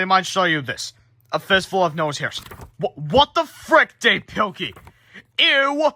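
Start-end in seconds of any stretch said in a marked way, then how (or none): 2.8-4.8 shocked. Real, not acted. Reader reacts to gross picture. 5.4-5.9 high grossed-out squeal; disgusted ew. Real, not acted. Reader disgusted by picture.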